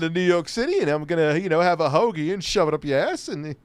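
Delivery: hammed-up New York accent. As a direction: do a mock New Yorker's accent. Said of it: "do so with a New York accent".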